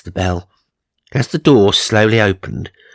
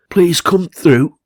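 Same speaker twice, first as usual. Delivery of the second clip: higher, slow put-on voice of a timid woman; nervous Charmaine; 10 semitones higher, 5 dB louder, slower than usual. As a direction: draw the welcome out in a high, fragile voice. Frightened homeowner Charmaine greets them.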